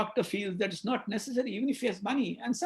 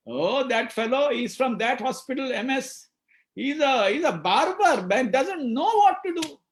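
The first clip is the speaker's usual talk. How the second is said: contemptuous gossip; 4 semitones higher, 4 dB louder than usual. Retold or imitated. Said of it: "Adjectives break relationships".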